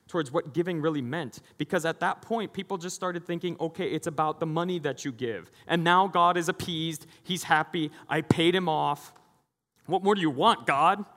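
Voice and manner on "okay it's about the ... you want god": smug worshipper. Retold or imitated. Worshippers voiced paying off God.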